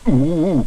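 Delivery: dentist's startled yelp; pained cry. A narrator's reading. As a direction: cry out as if bitten. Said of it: "cried Mister Leach".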